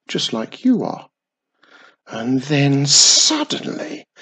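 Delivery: put-on old man thrilling the witch with his close call. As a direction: spin the scary tale bigger and bigger. Old man tells scary tale.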